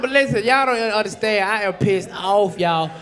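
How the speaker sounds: ordinary delivery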